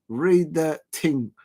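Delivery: very slow South London "Read the ting", ting with a hard t; South London slang. Retold or imitated. Streamer repeating the phrase for viewers, slow South London. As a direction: lean on each word in South London style. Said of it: "as they say in South London".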